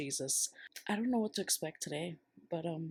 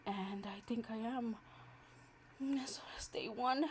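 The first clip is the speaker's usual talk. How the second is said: stunned whisper; 5 semitones higher, 4 dB quieter than usual. Real, not acted. Overwhelmed after first sale.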